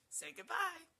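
high, loud coaxing; puppy talk. Real, not acted. Owner asking puppy to say goodbye, high puppy talk. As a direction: coax the puppy in a lifted voice.

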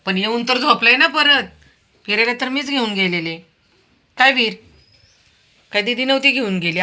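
high, loud doting chatter to a dog; pet talk. Real, not acted. Owner chatting fondly with her dog, high doting pet talk.

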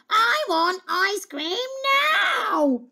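high, loud princess tantrum; bossy shout threatening tears; shouted demand. Acted. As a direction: stamp it out like a spoilt child. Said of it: "she shouted".

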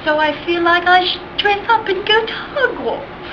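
lightly put-on British accent. Vlogger shows off weird accents, light mock British accent. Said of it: "like this one's British".

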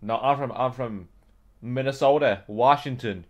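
put-on British player faking an American accent. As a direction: hesitantly pose as an American. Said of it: "if they vote me out because I'm British".

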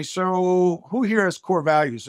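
slow, drawn-out question to the audience; a lightly voiced corporate speaker, slow; mock presenter question. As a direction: ask the room slowly like a speaker on stage. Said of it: "I love to say".

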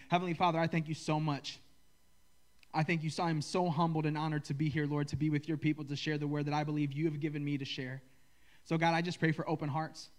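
earnest, steady prayer voice. Acted. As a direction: pray it sincerely to God. Leads the congregation in prayer.

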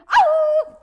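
very high, loud Oh; startled. Acted. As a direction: yelp it out high. Rabbit surprised.

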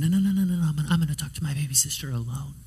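rapid-fire insistent little refusal; insistent child. Retold or imitated. Four-year-old stopping the parents at the door, insistent. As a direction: cut them off quickly like a determined kid.

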